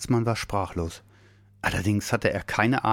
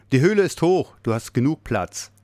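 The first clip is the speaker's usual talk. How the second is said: loud, high-starting call; calling back; 6 semitones higher, 5 dB louder than usual. A narrator's reading. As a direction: urge someone in from down the passage. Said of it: "rief er nach hinten in den Gang". (laut in den Gang gerufen)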